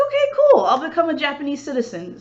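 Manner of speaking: high and quick, bright okay; mock eager agreement. Hopeful detective to police force, quick eager agreement. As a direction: agree cheerily, rushing on.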